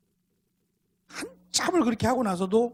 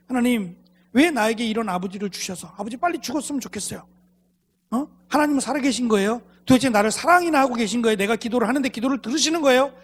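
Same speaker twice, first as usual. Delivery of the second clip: imitating a girl's reproachful prayer, questions rising in force; mildly accusing mock prayer; resentful prayer; 2 semitones higher than usual. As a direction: press God with aggrieved questions, as a retold plea. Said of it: "늘 원망 섞인 기도를 해왔고".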